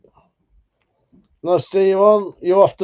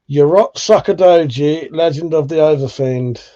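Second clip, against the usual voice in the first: called out to Google; 5 dB louder than usual. Shown as a demonstration. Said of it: "I'm gonna call it out to Google".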